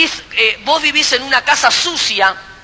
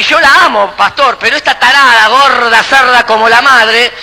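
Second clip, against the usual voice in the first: louder, mock-abusive tirade; acted angry ranting; 4 dB louder than usual. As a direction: play the bullying husband, voice raised. Acting an abusive man insulting his partner.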